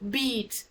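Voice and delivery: drawn-out high ee in beat; high vowel. Shown as a demonstration. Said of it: "you see your voice rises up".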